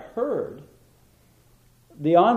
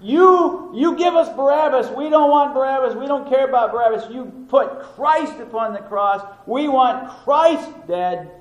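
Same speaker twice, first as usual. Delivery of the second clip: shouted high and loud, demanding; angry mob shout; 8 semitones higher, 5 dB louder than usual. Retold or imitated. Preacher voicing the Pharisees before Pilate, furious shout. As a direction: yell like a crowd baying for blood.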